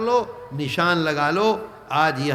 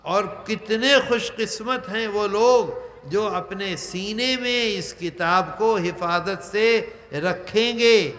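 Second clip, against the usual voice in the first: slow, drawn-out marvelling at their good fortune; swaying in admiration. Retold or imitated. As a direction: imitate enraptured angels, lingering on the phrases. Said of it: "جھوم کر یہ کہا".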